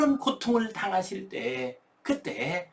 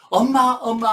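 put-on loud, higher cry of a child calling for mom; child's wailing cry; 3 semitones higher, 8 dB louder than usual. Child running to the mother who spanked him, loud wailing cry. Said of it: "하고 울부짖으면서".

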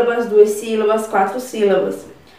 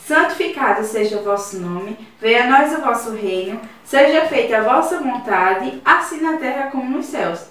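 prayer. Acted. Teacher leading third graders in the Our Father, reverent. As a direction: lead the class prayer gently and evenly.

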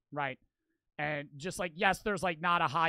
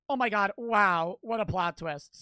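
amazed reaction; 3 semitones higher, 6 dB louder than usual. Real, not acted. Reacting to comment about plot twist.

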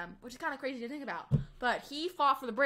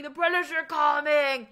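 drawn-out hammed-up yell, slower; mock scream; 4 semitones higher, 9 dB louder, slower than usual. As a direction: shout the alarm like a town crier, but mocking. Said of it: "He didn't go around screaming".

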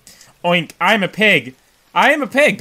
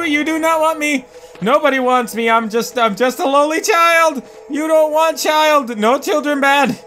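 mock child voice; 5 semitones higher than usual. Pleading as a helpless child.

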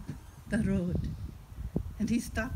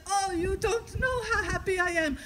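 put-on high, overjoyed old man; so happy; 8 semitones higher than usual. Old man hears his pet is found, overjoyed. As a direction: gush with relief in a raised pitch. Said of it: "And he was so happy".

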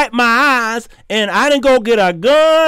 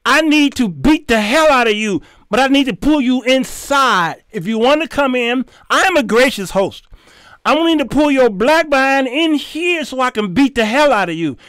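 retold threat; 3 semitones higher than usual. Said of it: "I said".

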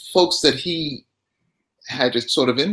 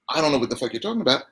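understated retold aggression, very fast; mildly aggressive; 4 dB quieter, much faster than usual. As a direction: toss it off quickly with a touch of aggression. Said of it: "it was aggressive".

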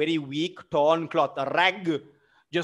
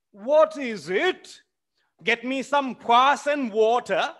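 irritable order; 7 semitones higher, 4 dB louder than usual. Acted. Smirnov barks an order.

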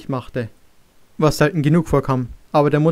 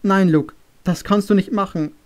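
higher, a touch of sobbing, pleading; mildly voiced mother crying out no; 4 semitones higher than usual. Mother begging her son not to leave, understated sobbing. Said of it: "schluchzte sie".

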